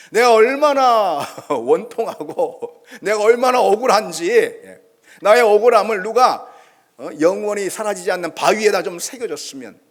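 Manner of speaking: pleading lament. Retold or imitated. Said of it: "이렇게 막 하소연하는 거죠".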